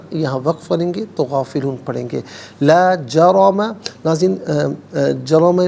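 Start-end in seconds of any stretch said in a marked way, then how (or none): 2.6-3.6 لا جرم slow with a full heavy ra; heavy ra recitation. Shown as a demonstration. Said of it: "را کو پر کر کے پڑھیں گے".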